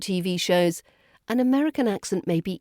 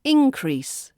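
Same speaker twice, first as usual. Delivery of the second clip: INcrease, first syllable high and stressed; 6 semitones higher, 3 dB louder than usual. Shown as a demonstration. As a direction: hit IN in "increase". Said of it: "As a noun".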